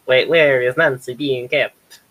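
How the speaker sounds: slow, put-on hag voice. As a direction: croak it out like a hag. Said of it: "I'm gonna ask in my best hag voice".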